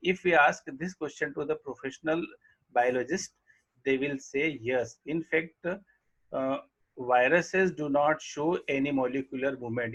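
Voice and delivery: reading the English line very slowly; slow textbook reading. Acted. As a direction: dictate each word to the class. Reads textbook line aloud slowly. (पाठ्यपुस्तक से धीरे-धीरे पढ़ना)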